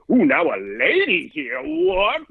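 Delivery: mock astonishment, pitch leaping on the last word; astonished audience. Comic voices an audience seeing a lady comic, mock-astonished. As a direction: imitate a scandalized crowd. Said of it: "they wanna be like".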